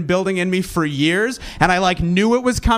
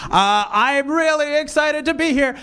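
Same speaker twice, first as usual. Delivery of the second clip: deadpan excitement; 5 semitones higher, slower than usual. Shown as a demonstration. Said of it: "an inability to inflect properly to indicate sincerity".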